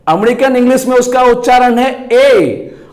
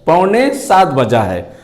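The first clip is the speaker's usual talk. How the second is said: पौने सात बजा है said slowly and lower; lower, slower repeat of पौने सात बजा है; slow, careful model phrase; 3 semitones lower than usual. Shown as a demonstration. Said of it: "कहता है".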